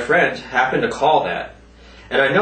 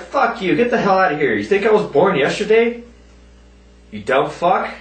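higher, mock angry telling off; retold telling off; 5 semitones higher than usual. Retelling cursing out the scammer, mock angry telling off. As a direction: spit it back at the scammer, a bit higher. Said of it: "I was like".

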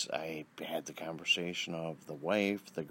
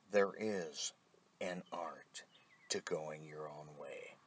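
whispered repeat; 3 semitones lower, 6 dB quieter, slower than usual. Shown as a demonstration. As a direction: repeat the line in a soft whisper. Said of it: "yes, I am repetitive".

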